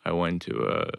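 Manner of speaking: low, quiet deadpan start; Stephen Wright deadpan. Retold or imitated. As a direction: mumble it low and flat. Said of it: "you gotta do Boston accent with it".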